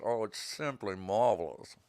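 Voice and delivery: slow posh words pushed through clenched teeth; through gritted teeth. Pretend. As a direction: say it through closed teeth, drawn out. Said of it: "Talk through your teeth".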